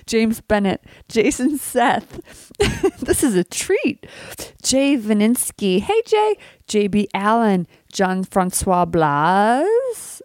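retainer lisp on names; wearing a retainer. Real, not acted. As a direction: talk with a retainer in. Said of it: "I have my retainer in".

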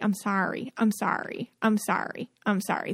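soft, repeated apologies, voice dropping; apologetic. Retold or imitated. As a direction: say sorry over and over, quietly. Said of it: "overwhelming feeling of apology".

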